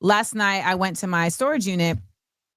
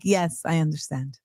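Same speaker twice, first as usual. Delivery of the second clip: put-on lower, careful reply with a slight Finnish accent; 5 semitones lower, 4 dB quieter than usual. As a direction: echo the Finn's accent lightly. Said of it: "In that accent, that's how you said it?".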